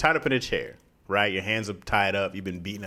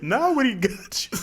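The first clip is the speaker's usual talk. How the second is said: higher, slow hammed-up Transylvanian accent; a campy vampire gloating over his prey; mock Transylvanian accent; 11 semitones higher than usual. Captor gloats in a hammed-up Transylvanian accent. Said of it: "This is like Dracula".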